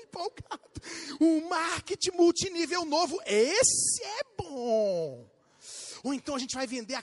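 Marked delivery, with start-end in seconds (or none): 1.2-5.3 slow, drawn-out pitch; excited husband. Retold or imitated. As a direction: sell the scheme all worked up. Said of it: "ele vem na esposa ... empolgado". (marido empolgado, arrastado)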